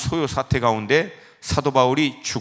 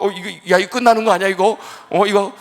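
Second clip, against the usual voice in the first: high, agitated mock alarm; acted panic; 5 semitones higher, 3 dB louder, faster than usual. Preacher reliving fear that the plane is doomed, panicky exclamations. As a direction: blurt it out as dread takes over.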